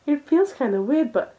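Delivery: put-on over-the-top anime girl voice; hammed-up anime girl.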